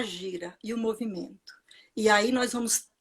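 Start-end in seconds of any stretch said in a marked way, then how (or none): 0.0-1.6 soft unvoiced whisper; hushed whisper; whispered aside. Real, not acted. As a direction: breathe it out as a private reverent aside.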